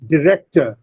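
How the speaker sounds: "director" with REC stressed; stress on second syllable. Shown as a demonstration. Teacher models "director" for students, stressing REC. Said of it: "rec is stressed".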